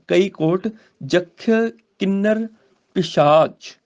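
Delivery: slow, deliberate recital with long pauses; slow scripture recitation. Shown as a demonstration. Teacher modelling the verse for students, slow and deliberate. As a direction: lay out each phrase slowly.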